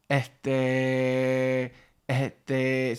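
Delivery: "este" stretched long, like "eeeste"; drawn-out Puerto Rican filler. Shown as a demonstration. Teacher showing the Puerto Rican hesitation filler. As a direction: drag out este while thinking. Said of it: "they say".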